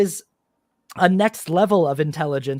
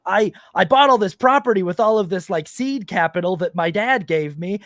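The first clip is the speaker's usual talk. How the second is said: lightly mocked bragging hustler, higher and louder; mock-excited landlord boast, pitched up; boastful landlord; 4 semitones higher, 4 dB louder than usual. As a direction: play up a TikTok braggart showing off a hack. Acting out boastful landlords on TikTok.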